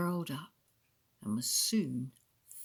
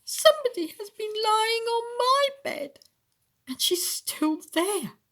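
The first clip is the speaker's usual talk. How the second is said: very high little wail; squeaky wailing bear; 6 dB louder than usual. A narrator's reading. Baby Bear finds someone in his bed, squeaky wail. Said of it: "wailed Baby Bear in a squeaky little voice".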